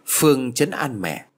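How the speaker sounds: usual speaking voice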